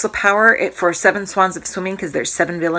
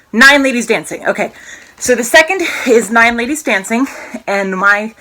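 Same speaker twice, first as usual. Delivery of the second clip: out of breath; 3 semitones higher, 4 dB louder than usual. Real, not acted. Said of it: "sorry, I'm out of breath".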